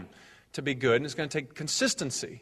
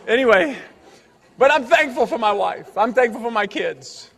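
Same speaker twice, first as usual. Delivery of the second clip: louder; 6 semitones higher, 6 dB louder than usual. Real, not acted. Loud recovery after joke.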